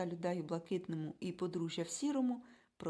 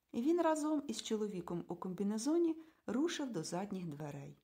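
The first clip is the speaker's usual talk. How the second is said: ordinary delivery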